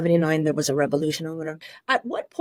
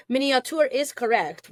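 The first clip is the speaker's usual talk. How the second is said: Miniature said with a Persian accent, mee-nee-ah-TOOR; 5 semitones higher than usual. Shown as a demonstration. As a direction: say Miniature the way a Persian speaker would. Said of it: "Let me say it in the Persian accent".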